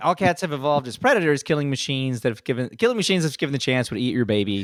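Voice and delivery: very fast, rapid-fire, run-on, rattled-off rant. On a podcast, the speaker makes a point, talking very fast. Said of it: "you don't got to be the micro machine guy".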